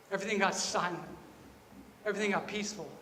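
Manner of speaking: soft, settling into peace; hushed. Real, not acted. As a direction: say it gently, as if stillness had fallen. Hushed repeats showing the stillness.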